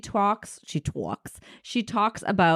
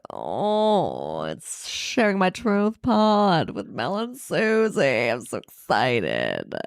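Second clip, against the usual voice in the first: put-on Valley girl voice; 2 semitones lower, slower than usual. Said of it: "you sound like a Valley girl or something".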